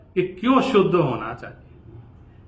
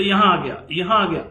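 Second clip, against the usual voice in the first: imitating the patient; 2 semitones higher, 3 dB louder than usual. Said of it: "ऐसे बोल रहा है वो".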